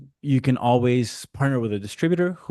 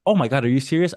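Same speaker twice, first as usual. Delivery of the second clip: startled, higher and louder; real surprise; 5 semitones higher, 4 dB louder, faster than usual. Real, not acted. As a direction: caught off guard by the time call. Told one minute left.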